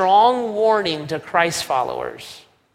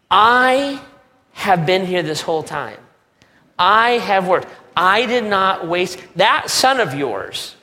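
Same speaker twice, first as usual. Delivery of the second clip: put-on angry older brother; 2 semitones higher than usual. Preacher voices angry older brother.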